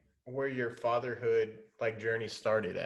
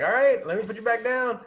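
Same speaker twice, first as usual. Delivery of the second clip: much higher and louder, lilting parent voice; sing-song to a toddler; 10 semitones higher, 6 dB louder than usual. Retold or imitated. Dad humoring his upset toddler, high sing-song voice. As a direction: lift the voice high and bright for a small child.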